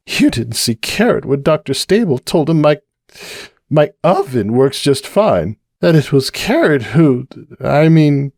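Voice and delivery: high, tipsy, worried mare voice; Cupcake confiding. Acted. Cupcake confiding her fears to the bartender, high and worried. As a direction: pour out the worry, a little tipsy.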